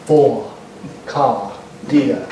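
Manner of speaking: English way, R dropped. Shown as a demonstration. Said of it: "they lose it".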